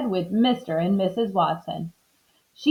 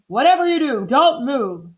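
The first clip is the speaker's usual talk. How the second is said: urgent order, raised pitch; shouted warning; 5 semitones higher than usual. A narrator's reading. Mister Watson warning wife and pig, urgent shout. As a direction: press the warning on them. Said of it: "shouted Mister Watson".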